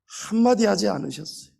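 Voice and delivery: usual speaking voice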